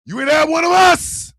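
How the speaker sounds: high, rising mock indignation; retold indignant denial. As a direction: deny it as if scandalized. Rebuffs the woman's claim.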